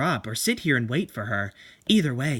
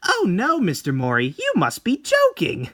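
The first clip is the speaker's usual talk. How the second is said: mocking laughter; 12 semitones higher than usual. Tomie mocks the painter's portrait.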